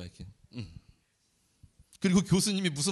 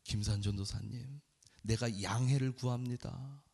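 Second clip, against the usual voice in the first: retold apology; 6 semitones lower, 7 dB quieter than usual. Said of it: "교수님이 그날은 저에게".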